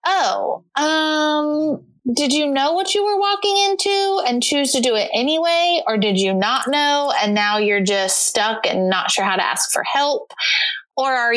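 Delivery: bewildered, rising inner monologue; incredulous inner voice. Retold or imitated. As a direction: play the stunned colleague's silent question. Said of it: "I'm just like".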